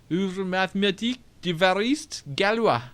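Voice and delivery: put-on French pronunciation; French reading. Player reading brother's weird book, French accent. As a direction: read it out in French.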